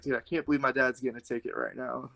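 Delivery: put-on kid exasperated. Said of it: "I was like".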